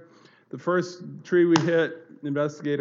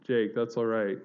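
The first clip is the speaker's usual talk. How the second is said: calm reassurance; 3 semitones lower than usual. Retold or imitated. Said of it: "I had this peace".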